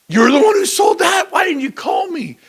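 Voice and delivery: high, loud incredulous cry; shocked shout. Retold or imitated. Rival agent at a fundraiser, shocked loud shout. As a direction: yell it in disbelief. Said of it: "he's like".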